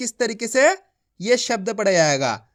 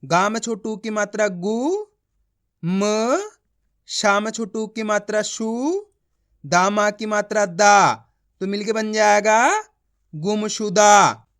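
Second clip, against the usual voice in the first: teaching demo; much faster than usual. Shown as a demonstration. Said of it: "देखो किस तरीके से है".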